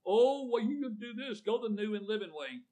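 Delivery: high, hammed-up television quack; mock a TV preacher's pitch; exaggerated high-pitched quack imitation. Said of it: "these quacks that we see on television".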